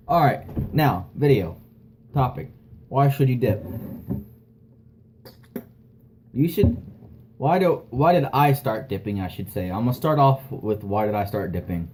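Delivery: talking around a lip of tobacco; dip in lip. Real, not acted. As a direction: speak with chewing tobacco tucked in lip. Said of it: "put a lip dip in my lip".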